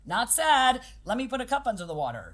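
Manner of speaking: voicing a kid. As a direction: chirp it like a kid who shrugs off a mistake. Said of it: "This is like".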